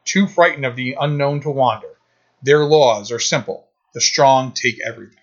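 grand, measured movie-trailer narration; epic fantasy narrator. Retold or imitated. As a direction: read it like an ancient legend, with weighty pauses. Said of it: "So here's the opening narration".

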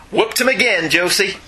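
a hint of outlaw swagger; mild Western twang. Host playfully quotes Josey Wales in a light cowboy voice. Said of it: "play at Josie Wales".

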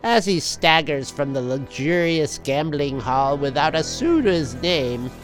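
dramatic comic narrator; story narration. A narrator's reading.

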